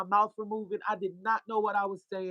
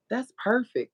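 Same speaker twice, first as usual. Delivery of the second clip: tag-pleased coworker; 5 semitones higher than usual. Retold or imitated. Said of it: "And she said, "Ah".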